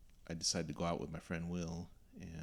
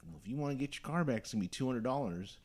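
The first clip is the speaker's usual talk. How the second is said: put-on old tow guy demanding; 7 semitones higher, 4 dB louder than usual. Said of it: "He's like".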